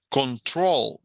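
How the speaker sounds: CONTROL punched on TROL; final-syllable stress. Shown as a demonstration. Teacher showing students where the accent sits, last syllable stressed. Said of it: "lleva el acento al final".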